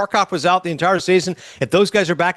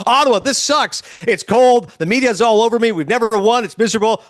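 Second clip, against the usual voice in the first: hammed-up complaint, pitched up; mock griping; 3 semitones higher than usual. Acting out a player fed up with Ottawa, mock griping.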